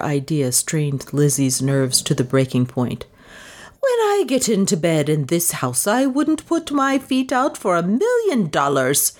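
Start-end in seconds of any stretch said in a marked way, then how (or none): 3.8-9.1 higher, earnest and candid; heartfelt. A narrator's reading. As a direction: confess it with all her heart. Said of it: "she said with heartfelt candor".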